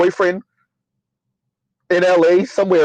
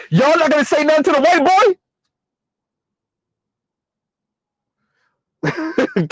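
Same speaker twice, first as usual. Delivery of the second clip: high-pitched imitated outrage; high mock voice; 9 semitones higher than usual. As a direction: squeak it out in outrage. Imitating someone calling it out.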